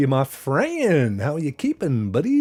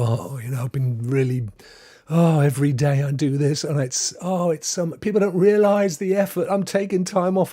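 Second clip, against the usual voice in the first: higher towards the end, mildly whiny; mock weary complaint; 3 semitones higher than usual. Streamer imitating colleagues needing a break, mock weary. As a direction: act out a fed-up streamer moaning.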